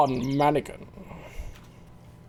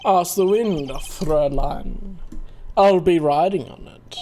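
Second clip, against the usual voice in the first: put-on German accent. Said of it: "German accent".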